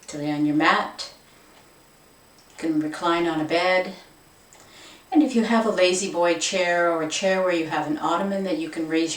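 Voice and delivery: calm, unhurried meditation guide voice; guided meditation. Acted. Yoga teacher guiding viewers into the meditation, calm. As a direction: settle them in gently, no rush.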